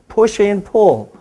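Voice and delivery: slow, stretched-out step cue; slow count. Shown as a demonstration. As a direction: count them through the move slowly. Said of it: "do it by my count slow".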